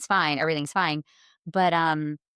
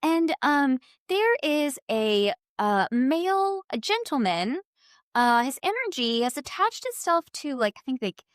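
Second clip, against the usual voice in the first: a soothing medium laying out the news; lightly voiced kindly psychic; quoting the psychic; 6 semitones higher than usual. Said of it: "And she goes".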